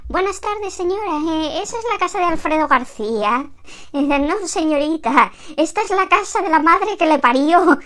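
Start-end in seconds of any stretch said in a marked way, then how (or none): 0.1-3.5 voz impostada más aguda al teléfono; voz de quien llama. Acted. Llamada equivocada por teléfono. 5.6-7.8 contesta más alto y agudo, con rabia cómica; respuesta airada. Acted.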